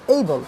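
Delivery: "এইবল" said short in one go; "এইবল" as a single brief syllable; one-syllable demo. Shown as a demonstration. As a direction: say "এইবল" as one unbroken beat, set apart by pauses. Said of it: "যদি একবারে উচ্চারণ করা যায়".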